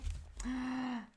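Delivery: soft, drawn-out gasp; startled gasp. Real, not acted. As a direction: let out a quiet gasp of surprise.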